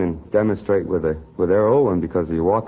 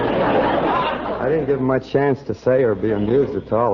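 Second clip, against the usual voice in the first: slowed, laughing through the words; 3 semitones higher, slower than usual. Real, not acted. Guest tells host of escaping the husband, laughing. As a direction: giggle while owning up.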